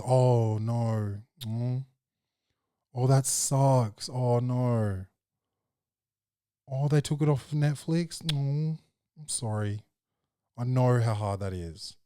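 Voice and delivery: gentle sympathetic murmur; sympathetic soothing. Shown as a demonstration. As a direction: console her like a sad toddler. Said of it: "you gotta appeal to the emotions".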